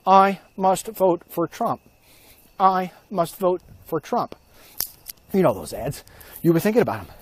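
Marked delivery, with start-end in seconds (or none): 0.1-4.4 slow, higher mock-hypnotized chant; brainwashed voters. Far left people made to say it by ads, slow brainwashed chant. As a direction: chant it slowly, word by word, like a zombie. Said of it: "made them say".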